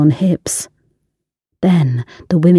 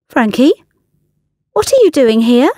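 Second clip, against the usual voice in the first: shocked outburst; 6 semitones higher than usual. Acted. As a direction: catch him off guard, accusing. Ella confronts ex-lover.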